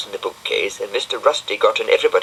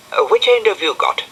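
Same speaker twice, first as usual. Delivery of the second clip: puffing while lifting; breathless from carrying; out of breath; 13 semitones higher, 3 dB louder than usual. Acted. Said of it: "puffing a lot".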